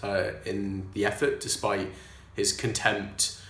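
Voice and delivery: a put-on Welsh accent, held throughout. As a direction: talk in a lilting Welsh accent. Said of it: "I'm gonna do this in a Welsh accent".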